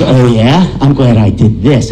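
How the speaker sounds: lightly voiced tough brother. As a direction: say it like a smug older brother. Older brother's tough reply.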